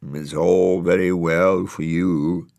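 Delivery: slow, lightly moaning tree voice; a hint of mournful tree; sulky trees. A narrator's reading. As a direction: grumble like a sulking willow. Trees sulking.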